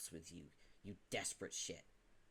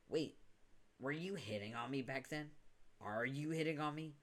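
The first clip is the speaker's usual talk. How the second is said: incredulous; 5 semitones higher than usual. Acted. Realizes he is being flirted with.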